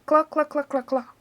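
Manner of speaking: high clucking hen, fading down; a giant hen clucking in the yard. A narrator's reading. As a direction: cluck like a big brown hen.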